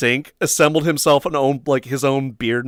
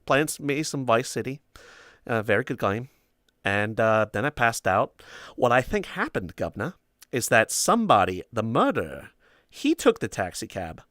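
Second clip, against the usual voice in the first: a half-hearted British accent, barely put on; bad British accent; 5 dB quieter than usual. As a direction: mumble it like a failed British impression. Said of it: "I can't do a British accent".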